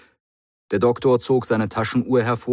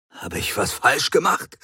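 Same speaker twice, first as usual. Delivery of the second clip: confused; 6 semitones higher than usual. Acted. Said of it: "fragte Matthews verwirrt".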